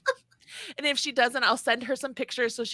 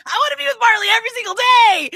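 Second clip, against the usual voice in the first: very high, loud hammed-up gushing; gushing mock fan; 10 semitones higher, 9 dB louder, faster than usual. Host teasing Robin as her devoted fan, gushing mock excitement. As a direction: exaggerate a devoted fan's excitement.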